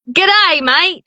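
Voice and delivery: broad Australian G'day mate, pitched high; a quick Australian demo for the host; Aussie accent. Shown as a demonstration. Narrator shows her Aussie accent. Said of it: "I can do an Aussie accent".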